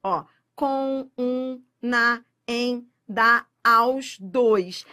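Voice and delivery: com, um, na, em, da, aos, dois separated and punched; listing again. Shown as a demonstration. Teacher rereading the list for the class, word by word. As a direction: rattle off each monossílabo separately.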